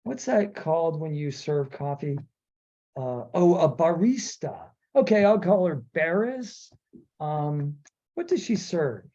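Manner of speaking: lightly voiced musing writer; mock George Lucas. Host pretends Lucas names a character at Starbucks, lightly mocking. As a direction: think aloud like a pleased naming hack. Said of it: "George Lucas ... he's going".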